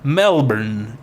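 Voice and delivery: struggling stab at an Australian accent; attempted Australian accent. Shown as a demonstration. Contestant testing city names, attempted Australian accent. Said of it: "say them in an Australian accent".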